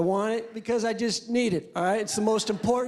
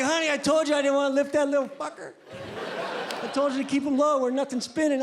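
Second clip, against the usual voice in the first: future self to wife; 4 semitones higher than usual. Retold or imitated. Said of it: "I'll be like".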